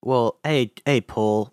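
lightly voiced Liverpool accent; a hint of a Liverpool musician; a singer. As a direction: try out a loose Liverpudlian impression. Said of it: "do you wanna hear my John Lennon accent".

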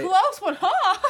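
mock quote screamed high and loud, laughing; screaming. Cohost echoing Kit's casual line, screaming it incredulously. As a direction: shout the line back in laughing disbelief. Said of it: "screaming just now".

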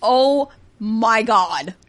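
drawn-out shocked gasp. Real, not acted. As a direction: stretch it in disbelief. Reacting to thirteen pounds.

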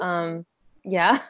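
glitchy metallic call audio; robotic voice. Real, not acted. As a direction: sound like a broken video call. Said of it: "you sound robotic".

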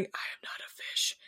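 unvoiced whisper, very soft. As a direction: whisper it to yourself.

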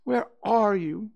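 slow, high, loud call; drawn-out searching cry. A narrator's reading. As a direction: call out for a missing friend. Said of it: "cried Christopher Robin".

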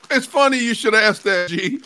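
playful announcer-like reply to a fan's chip question; playful loud answer. Real, not acted. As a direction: answer with a showman's flourish.

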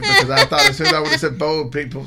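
quick words through laughter; laughing. Real, not acted. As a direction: laugh while answering. Laughing over a silly detail.

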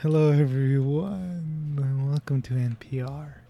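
slow hushed radio host; NPR voice. Shown as a demonstration. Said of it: "They all talk like this".

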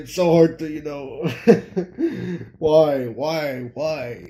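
laugh, then sigh out each word helplessly; struggling through laughter. Real, not acted. Commentator finding it hard to go on, laughing. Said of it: "you can hear it in my voice".

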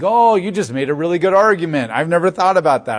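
hammed-up "oh, good point" reaction; mock sudden persuasion. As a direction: play someone instantly won over by an argument. Mock God swayed by an argument.

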